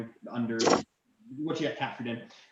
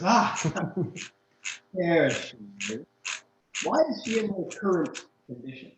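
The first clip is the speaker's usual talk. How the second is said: high, loud, gleeful royal voice with a laugh; the prince gloating over his prize; delighted prince; 7 semitones higher, 6 dB louder than usual. Acted. Prince to the adventurers, high and gleeful.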